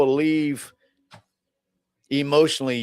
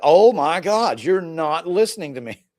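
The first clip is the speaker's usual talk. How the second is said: mock exasperation, pitched up; exasperated; 3 semitones higher, slower than usual. Woman to repairman who won't listen, exasperated. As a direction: play a fed-up woman not being heard. Skit woman fed up with fixer.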